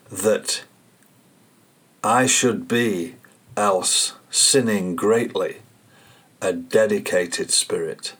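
measured recitation with long pauses; poem recitation. Acted. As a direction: let each phrase of the verse stand alone. Reads a verse aloud.

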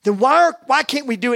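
worked-up protest in prayer; frustrated pleading. Retold or imitated. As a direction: plead for a reason, retold. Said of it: "I'm just frustrated with God".

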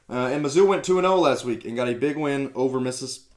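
talking through hiccups; words broken by a hiccup. Real, not acted. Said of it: "jeez, got the hiccups".

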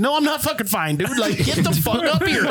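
high-pitched, exasperated retort, played for laughs; mock-panicked plea for help; retold panicked protest. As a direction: act out refusing to budge. Retold panicked refusal to friend.

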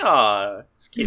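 cooing. Retold or imitated. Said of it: "He's like".

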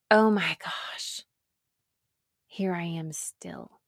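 "Oh my gosh" then fading to a breathless whisper; despairing whisper. Retold or imitated. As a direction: let it sink into a whisper of defeat.

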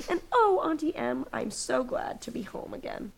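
high, gushing mock child fading down; mock gushing Dorothy. Dorothy's reunion line voiced mockingly.

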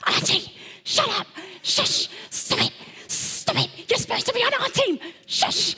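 urgent hushed yell at the dog; whisper shout. Retold or imitated. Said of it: "the whisper shout".

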